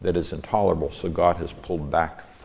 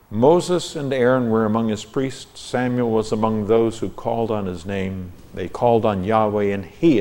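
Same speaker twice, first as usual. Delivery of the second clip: raised, declaimed verse reading; scripture reading; 3 semitones higher, 4 dB louder than usual. Real, not acted. Teacher reads out his translation of the psalm, declaimed scripture reading. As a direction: read it out as formal Bible verse.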